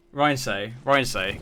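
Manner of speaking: Reims said as "Ryan say"; trying a pronunciation. Shown as a demonstration. Caster trying the chat's French pronunciation, sounding it out. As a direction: sound out "Ryan say" in two clear parts. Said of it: "Please tell me in chat".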